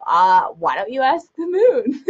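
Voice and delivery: playfully fed up, laughing it off; mock annoyance. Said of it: "I get kind of annoyed".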